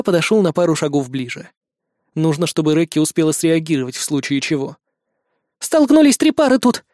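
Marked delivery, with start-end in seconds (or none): 5.6-6.8 high, loud panicked babble; the trapped girl babbles the news in panic; frightened babbling. A narrator's reading. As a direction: blurt it out in a scared rush. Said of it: "лепетала девчонка".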